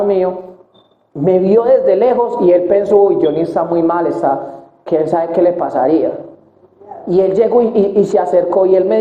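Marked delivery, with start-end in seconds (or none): 3.0-6.1 lower, lightly voiced worried friend; a hint of the friend fretting over Johnny. Friend's worried thought retold. (amigo preocupado, voz más grave)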